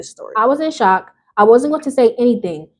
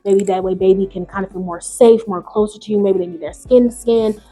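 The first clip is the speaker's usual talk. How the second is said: gentle advice; 3 semitones lower than usual. Shown as a demonstration. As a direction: ease into it like a kind friend offering help. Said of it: "Instead of being like".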